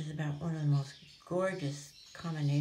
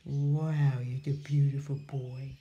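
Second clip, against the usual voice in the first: excited praise; 3 semitones lower, 7 dB louder, much slower than usual. Real, not acted.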